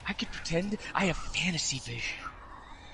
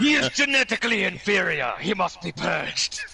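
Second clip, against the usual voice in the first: put-on German accent; 3 semitones higher, 3 dB louder than usual. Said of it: "you did it in, like, a German accent".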